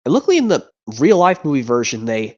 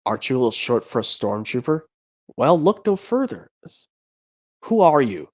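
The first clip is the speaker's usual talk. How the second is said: Star Wars quote impression. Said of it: "this impression where it goes".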